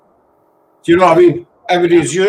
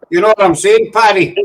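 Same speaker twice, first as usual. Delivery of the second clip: light put-on Irish lilt, slightly higher; mock Irish accent; 4 semitones higher than usual. Shown as a demonstration. Mocking a mate in a jokey Irish accent to chat. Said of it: "Like that".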